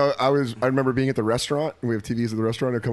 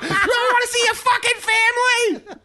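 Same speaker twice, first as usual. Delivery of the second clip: high, slow threatening voice; menacing robber. Acted. Playing robber threatening cashier, menacing and slow. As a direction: lean in and menace her.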